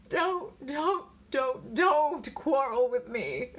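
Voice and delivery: high, drawn-out pleading moan. A narrator's reading. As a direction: beg plaintively, dragging the words. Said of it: "she moaned".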